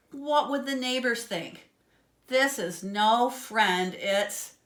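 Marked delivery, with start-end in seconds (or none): 2.3-4.6 slow, loud horrified reveal; horrified gasp. A narrator's reading. Inventor pig realising his creation is a monster, horrified. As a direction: drag out Porkenstein in horror. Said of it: "Doctor Pig gasped".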